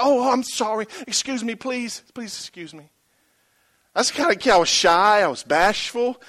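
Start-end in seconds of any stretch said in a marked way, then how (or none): 0.0-2.9 softer and softer, shy sorry; timid apology. Retold or imitated. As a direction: apologize like a bashful kid. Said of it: "I was timid".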